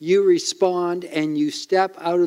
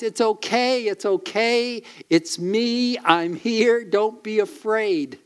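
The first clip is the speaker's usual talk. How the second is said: reassuring Lord; 5 semitones higher than usual. Acted. Preacher voicing the Lord's comfort.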